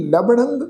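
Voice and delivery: ਲਭਣੰ with a nasal ending on ਣੰ. Shown as a demonstration. Teacher shows the congregation ਲਭਣੰ with its nasal ending. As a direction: end ਲਭਣੰ in a nasal hum. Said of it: "ਟਿੱਪੀ ਦੀ ਮਾਤਰਾ ਉਚਾਰਨ ਕਰਾਂਗੇ".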